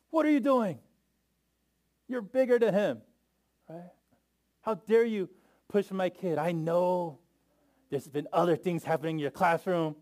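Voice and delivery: put-on high, loud scolding of a bigger boy; angry yell. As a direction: tell off the kid who pushed your son, furious. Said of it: "I yelled at another parent's kid".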